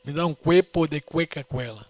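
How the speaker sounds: put-on broken Spanish with a Brazilian accent, cuepo said kwepo; bad Spanish. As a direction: order it in clumsy beginner Spanish. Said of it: "Meu espanhol era muito ruim".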